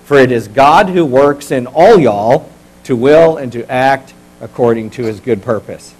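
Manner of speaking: slow, drawn-out Texan scripture reading; Texan twang. Shown as a demonstration. Pastor leading congregation reading Philippians, Texan twang. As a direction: read it aloud in a measured Texan twang. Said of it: "read this like a Texan. Put on your twang".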